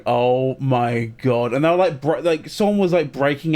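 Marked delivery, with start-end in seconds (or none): 0.1-1.5 disbelief. Retold or imitated. Retold inner disbelief.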